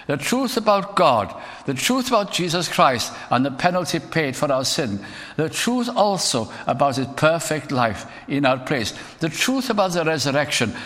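fiery sermon build; preaching at full force. Acted. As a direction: drive each truth home like a pulpit call.

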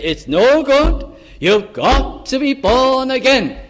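loud, high, slow market-woman call; powerful voice. Retold or imitated. Bolton market lady booming in Sunday school. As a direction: boom it out like she's calling across the market. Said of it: "she had a powerful voice".

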